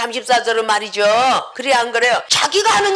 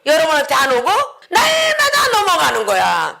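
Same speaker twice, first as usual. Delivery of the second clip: ordinary talk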